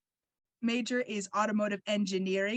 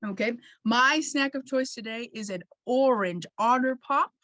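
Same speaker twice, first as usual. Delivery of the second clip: ice in mouth; 3 semitones higher than usual. Real, not acted. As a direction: mouth full of ice pop. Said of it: "I have ice in my mouth".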